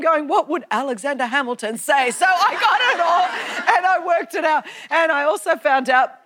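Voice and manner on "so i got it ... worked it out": ordinary talk, nothing marked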